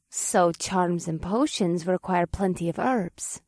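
slow, patient explanation; measured, unhurried patience. Acted. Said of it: "in a patient tone".

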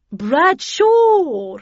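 high, loud cry of a name; urgent call. A narrator's reading. Havisham urging the commander, high urgent shout. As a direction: call out sharply to stop him. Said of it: "urged Miss Havisham".

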